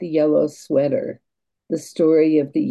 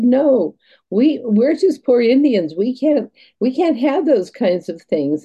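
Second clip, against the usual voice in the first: much higher, louder hammed-up lament; mock poor grandmothers; 8 semitones higher, 3 dB louder than usual. Teller voicing the teasing grandmothers refusing Lynn, hammed up much higher. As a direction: play the trickster elders protesting with feigned humility.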